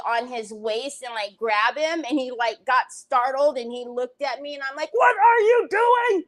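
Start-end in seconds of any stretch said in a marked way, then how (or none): 4.9-6.2 high, loud alarmed shout; shrieked scolding question; retold yell. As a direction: re-enact yelling at someone caught misbehaving. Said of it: "Then I yelled".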